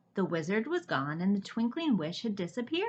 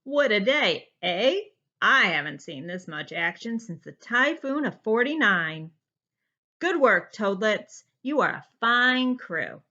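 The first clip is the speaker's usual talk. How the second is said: put-on loud hearty old captain; jolly sea captain; 6 dB louder than usual. Captain Delbert boasting to his crew, loud hearty sailor voice. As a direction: sound like a boisterous sailor.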